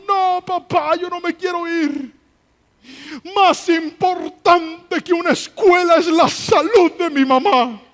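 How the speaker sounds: put-on high, loud, tearful child protest; crying child. Daughter crying to her father that her mother comes first, high and tearful. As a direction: plead through tears like a little girl. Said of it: "empezó a llorar".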